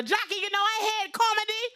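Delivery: put-on high-pitched Jamaican-accented mother. Mom objecting to her comedy job, in a high Jamaican accent. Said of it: "Her exact words were, ... her very heavy Jamaican accent".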